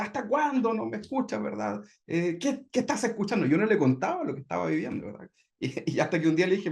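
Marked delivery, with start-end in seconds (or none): 0.0-3.5 imitating a higher-pitched, fed-up wife nagging; mock complaint, pitched up; annoyed wife. Wife in bed scolding husband lost in his headphones, mock annoyed. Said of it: "se enojaba conmigo".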